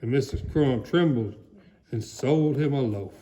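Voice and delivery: plain reading voice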